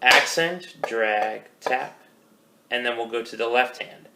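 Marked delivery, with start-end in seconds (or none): 0.0-2.0 slow rhythmic call-out leaning on "Accent"; calling the strokes. Shown as a demonstration. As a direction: call each stroke in time, separated. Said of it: "So it'll look like this".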